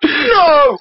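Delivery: exasperated protest. Acted. Reader refuses to accept Christian Rachel in Israel, exasperated.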